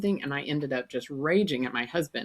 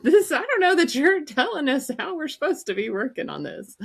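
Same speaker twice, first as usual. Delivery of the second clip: mock exasperated; 10 semitones higher, 3 dB louder than usual. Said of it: "I was like".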